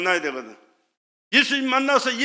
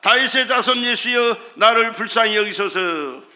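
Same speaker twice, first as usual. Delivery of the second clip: stretched, raised plea; crying out; 4 dB louder than usual. Retold or imitated. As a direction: imitate a beggar calling out, fairly loud. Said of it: "그는 소리 지릅니다".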